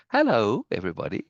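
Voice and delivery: lightly imitated woman with a teasing tone; playful imitation, a hint of put-on voice; Norma. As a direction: tease with a mock introduction, lilting up and down. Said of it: "trying to sound like I imagine Norma might sound with a, with a teasing tone".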